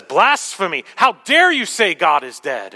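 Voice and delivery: loud, mock-indignant rebuke; irritated outburst. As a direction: imitate a fiery husband exploding at his wife. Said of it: "automatically goes to level eleven and gets really irritated".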